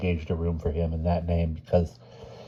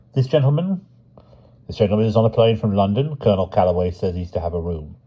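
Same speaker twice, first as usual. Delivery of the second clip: porter voice. Acted. Porter Payne voiced in story.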